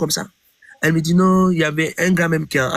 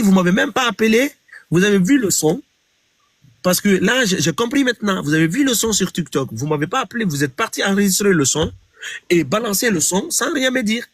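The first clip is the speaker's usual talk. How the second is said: raised, heated complaint at being left out; indignant reproach; 6 semitones higher than usual. Retold or imitated. To the manager's wife, retelling his heated high-pitched reproach. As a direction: protest high and hot, a half-acted grievance.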